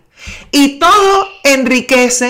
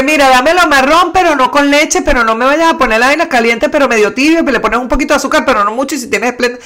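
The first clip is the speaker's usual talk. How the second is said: fussy, long-winded order. Retold or imitated. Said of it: "no jodas, tres horas".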